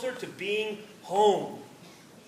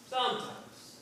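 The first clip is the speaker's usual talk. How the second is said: reluctant admission; 3 semitones higher, 8 dB quieter, slower than usual. A narrator's reading. Terry reluctantly admits pain.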